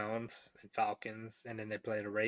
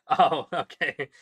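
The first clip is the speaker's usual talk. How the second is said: drawn-out, loud mock "oh, okay" with a higher pitch; mock surprised; 5 semitones higher, 12 dB louder, slower than usual. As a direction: read a chat comment back in mock surprise, high and drawn out. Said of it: "Somebody said".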